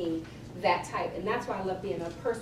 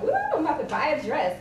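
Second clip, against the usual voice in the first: higher, whooping delight; mock glee; 5 semitones higher, 4 dB louder, faster than usual. Chef handed a client's Amex, mock gleeful. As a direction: whoop it playfully, pitched up.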